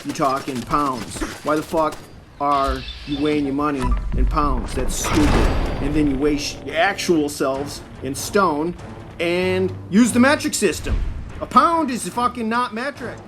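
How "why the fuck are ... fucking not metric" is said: loud, exasperated ranting at the English; mock outrage. Real, not acted. Streamer ranting to chat about English units, loud mock outrage. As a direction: rail at the absurdity, loud.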